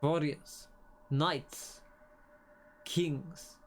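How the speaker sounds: slow, hushed, solemn game-dialogue reading; brooding dialogue voice, drawn out and grave; slow dramatic reading. Acted. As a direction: read it like an ominous prophecy, slowly. Reads the boss's lines dramatically.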